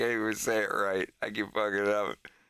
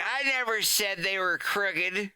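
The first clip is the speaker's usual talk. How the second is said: higher, indignant protest; defensive kid; 6 semitones higher than usual. Retold or imitated. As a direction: stress on never, lightly acted denial. Fox defends himself.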